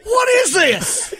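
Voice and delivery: high, loud, slow outraged redneck yelling at the ref; redneck football commentator. Pretend. Redneck commentating Monday Night Football, mock outraged yell. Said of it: "Monday Night Football through a redneck's eyes".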